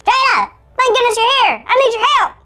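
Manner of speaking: high, urgent cartoon elf voice; little chipmunk-like voice, high and anxious. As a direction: plead for help in a tiny elf squeak. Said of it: "sound like a cartoon elf".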